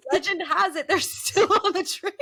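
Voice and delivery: high, laughing ghost-story telling; spooky legend told through laughter. Acted. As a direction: giggle through a spooky tale.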